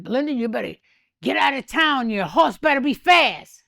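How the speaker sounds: a hint of a Western lawman's order; Wyatt Earp. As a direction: imitate a gunslinger giving a warning. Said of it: "It sounded like Wyatt Earp".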